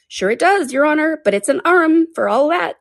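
high, lightly voiced servant; a hint of stubborn servant; servant's dialect. A narrator's reading. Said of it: "He pronounced it arum".

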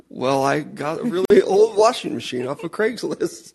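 laughing through the words; giggling while talking; after laughing hard. Real, not acted. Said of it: "I'm crying laughing".

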